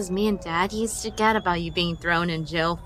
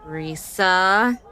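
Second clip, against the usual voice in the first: stern warning. Acted. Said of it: "Tanya warned sternly".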